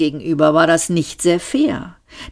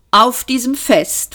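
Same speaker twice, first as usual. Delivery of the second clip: persistent, higher-pitched resumption; dogged insistence; 6 semitones higher than usual. A narrator's reading. Arthur presses on with his party story, stubborn. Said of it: "fuhr Arthur hartnäckig fort".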